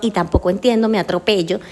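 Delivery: fast, tumbling words; rapid tachylalia demo; fast speech demo. Shown as a demonstration. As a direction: rush and trip over the words. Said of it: "yo hablo extremadamente rápido".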